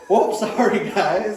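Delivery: slow, loud, high singsong sorry; fake-sweet apology to the snakes; mock apology.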